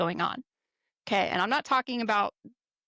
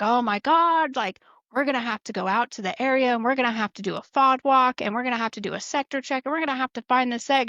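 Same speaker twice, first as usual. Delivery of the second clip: higher, louder fake-alarmed rant; mock alarm; 4 semitones higher, 3 dB louder than usual. Flight chief faking alarm at the lost egg, higher and louder. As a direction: ham up the chief pretending it's a disaster. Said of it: "our flight chief's like".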